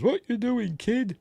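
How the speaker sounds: soldier voice. Retold or imitated.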